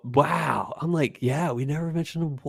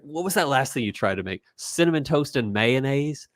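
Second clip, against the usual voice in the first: put-on British accent, slightly higher; fake British accent; 4 semitones higher than usual. Retelling two brothers fighting in a video, fake British accent. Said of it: "he comes across with a British accent, which you can tell is fake".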